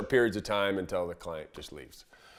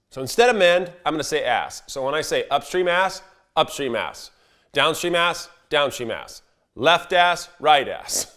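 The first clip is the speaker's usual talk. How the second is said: fed-up outburst; 5 semitones higher, 5 dB louder than usual. Retold or imitated. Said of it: "my buddy finally flips".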